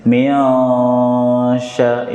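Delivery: Miasya with ikhfa blurred; wrong reading. Shown as a demonstration. Teacher demonstrating the wrong Miasya. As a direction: run Miasya together flat. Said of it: "ini salah".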